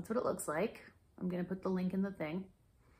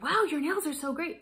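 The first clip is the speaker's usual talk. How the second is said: higher-pitched imitation of an admirer; mock-impressed, pitched up on the wow; impressed gushing; 8 semitones higher, 4 dB louder than usual. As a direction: gush it as a quoted compliment. Quotes admiring people.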